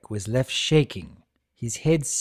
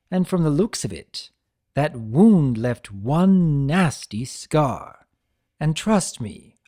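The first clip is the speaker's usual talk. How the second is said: lightly raised, lively trickster lecturing a prisoner; Discord voice; 2 semitones higher, 4 dB louder than usual. Acted. Discord chiding Tirek for abandoning his brother, lightly voiced trickster.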